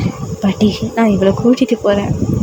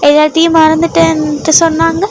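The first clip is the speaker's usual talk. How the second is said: put-on higher, earnest girl explaining; innocent heroine; 5 semitones higher than usual. The heroine tells her husband she fell from the cliff, innocently high. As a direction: protest sweetly, voice raised.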